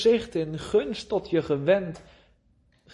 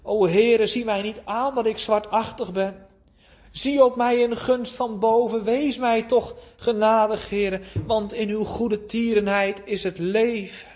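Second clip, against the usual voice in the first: crying out in prayer; 4 semitones higher than usual. Retold or imitated. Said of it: "om uit te roepen".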